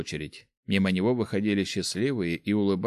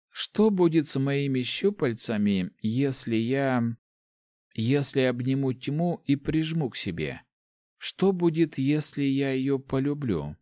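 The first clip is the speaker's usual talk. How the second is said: put-on higher, slow, searching girl voice; girl's voice; 5 semitones higher, slower than usual. Student girl questioning her teacher, higher and slow. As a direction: ask it like a young girl, slowly. Girl asks about embracing darkness.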